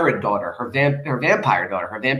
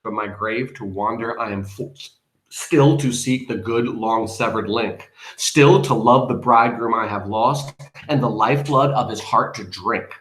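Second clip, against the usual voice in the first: measured, solemn verse reading; poem recitation; 2 semitones lower than usual. A narrator's reading. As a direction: recite the lament deliberately.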